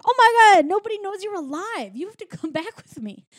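acted-out joyful reunion squeal; overjoyed. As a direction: burst out high in happy amazement, laughing near the end. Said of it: "celebrating and happy".

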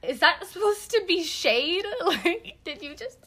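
high, loud, sassy and laughing; sassy offended comeback. Retold or imitated. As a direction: call out the shade with attitude. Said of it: "And I was like".

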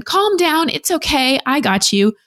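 high, hurried hushing mom; hushing parent. Retold or imitated. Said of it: "That's way better than".

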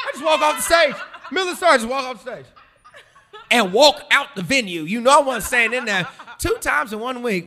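can't get through it without cracking up; laughing retelling. Real, not acted. Telling the host how he fled the stage, laughing hard.

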